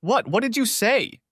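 high, thin, shocked squeak; weak squeak. A narrator's reading. Wife caught out, squeaking weakly in shock. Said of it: "Debbie managed to squeak weakly".

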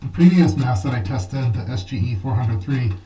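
muffled, speaking inside a mask; through a gas mask. Real, not acted. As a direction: talk through a respirator. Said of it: "you're able to speak while you're wearing the mask".

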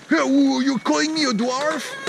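high-pitched offended challenge; mock outrage. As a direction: play someone insulted by a name. Acts out an offended dwarf.

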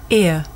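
Ear, the mouth gliding from ee to uh; model diphthong ear. Shown as a demonstration. Teacher repeats the model for pupils to watch, clear glide. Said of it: "Listen and watch".

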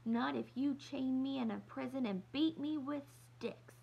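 rising into a high indignant protest; sputtering. Acted. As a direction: build the tantrum up to the end. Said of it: "Kirsty sputtered".

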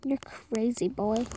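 soft teasing whisper. Pretend. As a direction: breathe it like a secret. Whispered echo of the line before.

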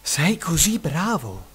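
self-admiring. Acted. Tailor admiring himself after killing seven flies, soft and slow. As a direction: praise yourself quietly, pleased. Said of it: "disse ammirato fra sé e sé".

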